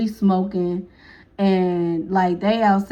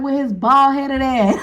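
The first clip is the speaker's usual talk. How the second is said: louder, slow mocking jab; insulting shout; 2 semitones higher, 3 dB louder than usual. Girl insulting him.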